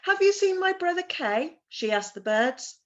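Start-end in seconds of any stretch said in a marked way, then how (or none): 0.0-1.6 hopeful Gerda asking. Acted. Gerda asks the birds.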